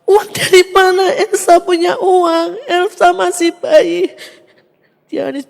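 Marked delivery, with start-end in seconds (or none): 0.1-4.1 louder, insistent mother's denial; retold disbelief. Mother doubting her son about baby Elsa's money, loud disbelief. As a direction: firmly insist it cannot be so.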